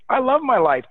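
mock upbeat answer on a call; enthusiastic greeting. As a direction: answer the phone like life is great. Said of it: "If your response is".

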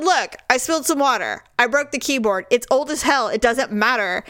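retold annoyance, mildly heated; pissed off. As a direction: argue back, re-enacting your irritation. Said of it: "now I'm pissed".

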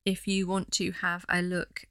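flat robotic delivery. Real, not acted. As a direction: speak like a robot. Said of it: "why do I sound like a robot".

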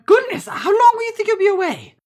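high, loud, dismayed auntie voice; shocked auntie. Acted. Auntie hearing they are leaving, high shocked voice. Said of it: "She covers her hand".

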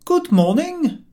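high, slow, courtly good morning; overly genteel greeting; polite greeting. A narrator's reading. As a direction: raise your hat and sing it out politely. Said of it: "George raised his hat and said".

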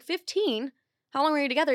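mock double take at the number; shocked disbelief. Hears he cheated fifteen times.

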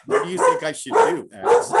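lightly voiced girl, high and calm; a hint of a calm young woman; imitating calm girl. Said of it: "just as calmly like that".

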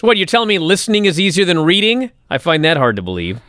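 sarcastic mock incredulity. Real, not acted. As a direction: feign surprise with heavy sarcasm. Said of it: "I'm being sarcastic".

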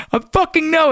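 retold high-pitched exclamation; panicked reply. Just rescued soldier answering his buddy, mock panicked reply. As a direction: blurt it out high, acting out panic.

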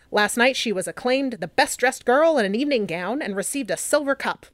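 lightly voiced 1920s newsreel announcer; a hint of an old radio newsreader; old-timey voice. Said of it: "I'm gonna use my old, old-timey voice".

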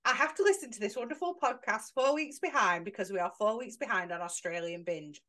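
amateur go at an Australian accent. Shown as a demonstration. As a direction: read it out in a tentative Aussie accent. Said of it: "read this in an Australian accent".

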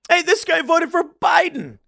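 loud, slow mocking shout; mocking call-out. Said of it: "if you ever talk to someone".

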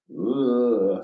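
imitated groan, the start of a yell; building groan. Man in sleep paralysis building up a yell, groan. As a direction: begin a held groan that gathers toward a yell. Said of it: "I'm, like, building it up".

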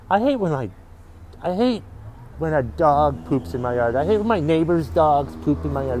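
mock angry rant. Ranting to podcast listeners on a friend's behalf, hammed-up anger. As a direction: huff and puff like the dog poop is a personal insult. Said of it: "so I'm gonna get mad about that on her behalf".

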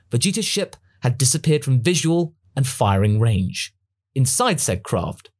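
plain reading voice

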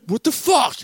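high-pitched mock outburst; retold freak-out. Storyteller retells his friend's losing bet, imitated freak-out. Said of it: "And you freaked out".

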